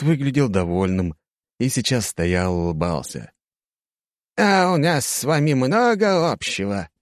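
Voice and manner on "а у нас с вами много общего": put-on high, creaky very old man. A narrator's reading. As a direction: speak as a frail old wizard. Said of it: "старческий голос".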